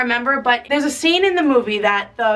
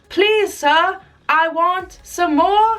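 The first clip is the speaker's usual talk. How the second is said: higher, plain request; lightly voiced orphan boy; orphan asking; 5 semitones higher, 3 dB louder, much slower than usual. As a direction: state it like a hungry boy. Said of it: "he says".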